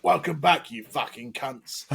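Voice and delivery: hammed-up London tough-guy welcome; Butcher. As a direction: belt out the greeting, then stretch the insult. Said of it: "my best Butcher impression".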